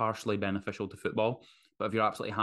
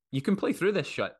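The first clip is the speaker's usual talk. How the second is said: hyped-up tough guy; 9 semitones higher, 4 dB louder than usual. Retold or imitated. Tough-guy mockery of pushing through.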